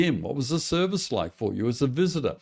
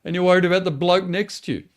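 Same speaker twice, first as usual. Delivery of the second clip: exasperated Jesus; 4 semitones higher than usual. Retold or imitated. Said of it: "I always imagine Jesus rolling his eyes".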